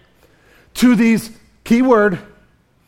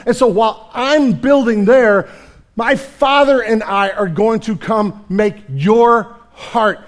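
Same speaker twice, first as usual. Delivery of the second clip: louder, higher preaching in Jesus's voice; preached Jesus voice; 3 semitones higher, 4 dB louder than usual. Acted. Pastor voicing Jesus's promise to the disciples, full force. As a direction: proclaim it like Jesus's promise to his friends. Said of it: "He said".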